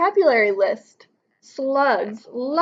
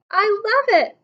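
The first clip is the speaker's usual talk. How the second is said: slug voice; 9 semitones higher than usual. Acted. Slug character reacts to poem.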